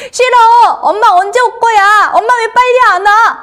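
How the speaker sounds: high, loud whining at mom; annoyed child. Acted. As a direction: throw a little tantrum as an impatient kid. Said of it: "짜증내거나 화낸 적이 있지 않나요?".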